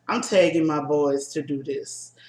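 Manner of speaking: talking through burps; gassy, burping between words; burping after fizzy drink. Real, not acted. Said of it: "I'm still burping".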